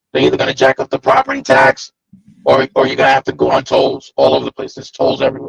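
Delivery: low, creaky, mechanical robot-like voice. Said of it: "You sound like Voltron".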